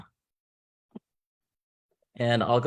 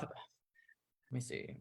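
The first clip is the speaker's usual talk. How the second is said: muttered aside; 19 dB quieter, much slower than usual. Real, not acted. Host checking who is here.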